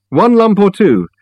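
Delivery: Reg calling out. A narrator's reading. Old host calling tea choices from the kitchen, high and slow. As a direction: call from the kitchen as a genial old man.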